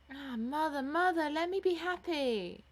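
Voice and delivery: high, loud daughterly entreaty; impassioned plea. Acted. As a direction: beg your mother with all your heart. Daughter begs her mother.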